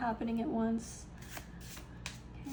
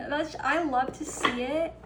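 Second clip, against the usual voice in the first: louder, thrilled exclamation; excited; 6 dB louder than usual. Real, not acted. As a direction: burst out with delight. Excited at the Magician card.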